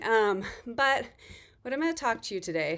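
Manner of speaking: slightly winded after a workout; out of breath. Real, not acted. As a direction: talk while still catching breath. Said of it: "sorry, I just worked out, so I'm a little out of breath".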